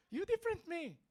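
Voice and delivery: high, loud mock challenge; mock indignation. Preacher mimicking broken English for the crowd, mock indignation. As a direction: belt it out high, for laughs.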